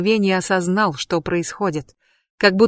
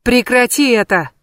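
higher, louder command to stop; shouted; 4 semitones higher, 4 dB louder than usual. Acted. Loki shakes the witch, shouting at her. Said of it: "Локи встряхнул её ещё сильнее".

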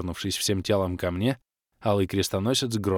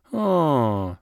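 groan; 5 semitones higher, 3 dB louder than usual. A narrator's reading. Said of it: "простонала Кэлен".

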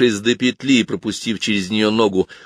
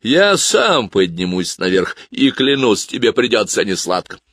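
stern; 2 semitones higher, 3 dB louder than usual. Acted. Piper threatens to climb up after the boy, stern. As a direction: make the threat sound final. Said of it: "сурово произнёс дудочник".

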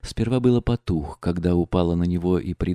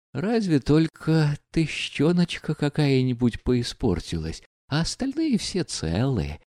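touched, tender; 6 semitones higher than usual. A narrator's reading. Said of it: "с умилением выговорил Лебедев".

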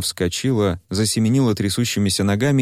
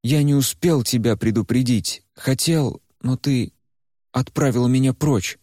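put-on a lightly raised, earnest young man's voice; Куйгарош; 5 semitones higher than usual. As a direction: talk to her gently but firmly. Куйгарош explains to Varya. (спокойный, серьёзный голос Куйгароша)

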